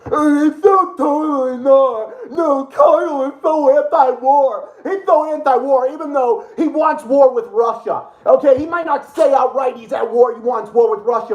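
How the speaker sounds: mock them with dripping sarcasm; sarcastic mock.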